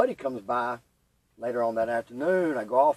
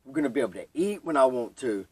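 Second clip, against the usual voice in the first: excited relief; 3 semitones higher, 6 dB louder than usual. Retold or imitated. Retold relief in sunroom.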